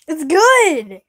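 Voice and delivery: loud, pushy insistence; insisting loudly. Real, not acted. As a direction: make mom try it. Urging mom to try sandwich.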